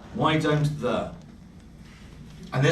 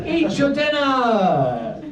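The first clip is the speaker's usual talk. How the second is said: mock parent yell; 9 semitones higher than usual. Parent yelling at kids over dinner, mock exasperated shout. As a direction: bark at the kids to eat up.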